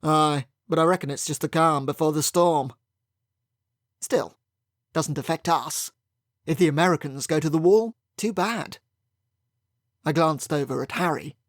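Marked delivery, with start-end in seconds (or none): 0.0-8.8 lightly voiced Yorkshire factory owner, a bit louder; a hint of a hearty Yorkshire accent; loud Yorkshire brogue. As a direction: bluff Yorkshire, mildly raised. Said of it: "loud Yorkshire brogue".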